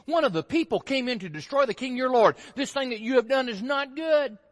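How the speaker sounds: loud, accusing declamation; calling out. Acted. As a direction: call the charge across to a sleeping guard. David calls accusingly to Abner.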